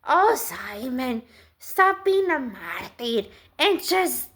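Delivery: hammed-up nag telling Simon to quit moping; mock Jesus nagging Simon at the boat; nagging Jesus parody. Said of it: "Did he talk like that?".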